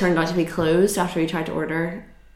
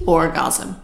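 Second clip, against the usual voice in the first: apathetic; 3 semitones lower than usual. Retold or imitated. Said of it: "And it was literally like".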